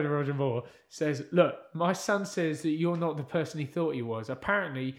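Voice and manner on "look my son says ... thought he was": working-class dad. Retold or imitated. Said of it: "working class man".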